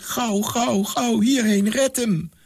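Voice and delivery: put-on high, urgent girl's voice; choked plea. A narrator's reading. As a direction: beg him to hurry, breathless. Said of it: "Met verstikte stem zei ze". (met verstikte stem, hoog en dringend)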